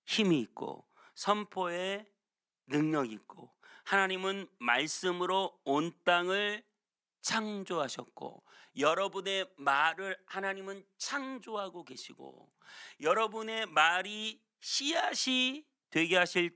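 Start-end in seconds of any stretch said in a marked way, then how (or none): none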